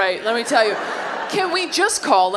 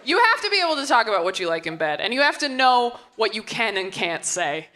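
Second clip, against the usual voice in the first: ordinary talk, nothing marked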